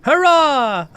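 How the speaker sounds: high, loud little Hobbit cheer. Retold or imitated. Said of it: "It sounded a lot like a Hobbit voice".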